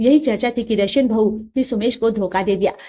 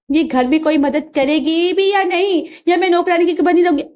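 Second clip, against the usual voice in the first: raised, fast nagging grumble; complaining mother-in-law; 6 semitones higher than usual. Acted. Mother-in-law scolds the family over chores, grumbling.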